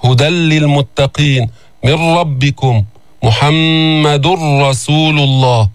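slow, measured tajweed recitation; drawn-out, reverent recitation style; Quran recitation. Acted. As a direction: recite with long held vowels and nasal hums.

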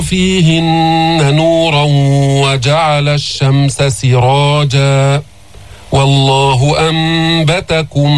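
slow, measured tajweed recitation; steady melodic Quranic chant. Shown as a demonstration. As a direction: chant the verse with long, held vowels.

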